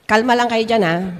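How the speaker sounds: a lightly acted leader telling followers to stay calm; calming encouragement. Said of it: "in-encourage ni Moses". (mahinahong pampakalma)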